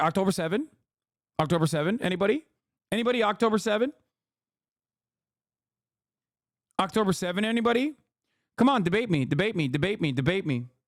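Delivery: taunting, derisive, needy mocking voice. Mocking an interviewer who ran out of talking points: mocking imitation of the interviewer. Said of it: "He ran out of talking points. It was like".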